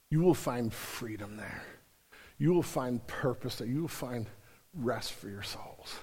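tender preacher voicing Jesus; gentle preaching. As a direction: ease down to a soothing close. Gentle quoted Jesus, fading.

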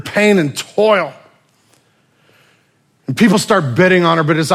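loud, driving sermon storytelling; preaching at full force. Acted. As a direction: preach it out to the whole room.

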